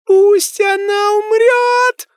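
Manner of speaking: put-on very high, slow, loud ghost child; ghost scream. A narrator's reading. Ghost girl screaming into the medium's ear. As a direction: shriek it right into the ear. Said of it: "закричал призрак мне на ухо".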